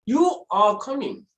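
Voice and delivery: "You are coming" slow, falling at the end; order. Shown as a demonstration. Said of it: "I'm just giving an order".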